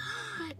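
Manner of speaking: quick acted gasp of shock; startled gasp. Girl doing a scared double take, sharp gasp. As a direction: suck in breath at a scare.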